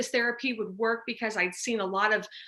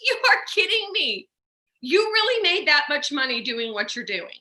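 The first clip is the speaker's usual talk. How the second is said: high, loud, stunned disbelief; can't believe what the friend just showed her; retelling a jaw-dropped reaction; incredulous disbelief; 4 semitones higher, 4 dB louder than usual. Retold or imitated. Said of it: "And I'd be like".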